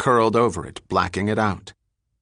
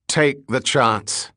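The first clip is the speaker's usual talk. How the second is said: slow demand; 3 semitones higher, slower than usual. Acted. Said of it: "O'Shea demanded".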